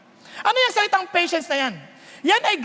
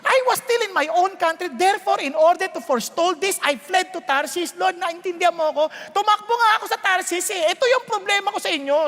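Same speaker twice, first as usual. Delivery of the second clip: mild angry Jonah; 3 semitones higher than usual. Retold or imitated. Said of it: "Galit siya".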